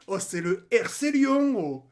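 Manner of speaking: sneering at the rival club; mocking jibe. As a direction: drag it out to belittle them. Mocking Lyon club name.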